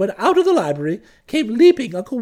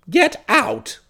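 sharp, exasperated outburst; angry order. Acted. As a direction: throw him out in exasperation. Bertie orders the sacked Jeeves out.

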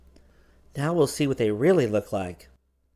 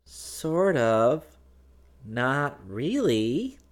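high, drawn-out hesitant answer; doubtful; 5 semitones higher, much slower than usual. A narrator's reading. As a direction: stretch it out, unsure and unconvinced. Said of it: "Dorothy said doubtfully".

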